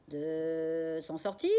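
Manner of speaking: slow drawn-out parrot mimic; parrot cackle. Parrot Jaco echoing father, slow parrot voice. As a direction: drag it out like a parrot. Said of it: "cancane le perroquet".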